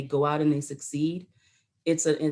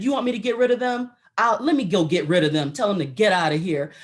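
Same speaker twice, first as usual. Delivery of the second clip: brisk, forceful retold offer; hint of a sergeant taking charge; lightly voiced drill sergeant; 3 semitones higher, 4 dB louder, faster than usual. Drill sergeant to crying recruit about visitors, lightly imitated forcefulness. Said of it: "my drill sergeant looked at me".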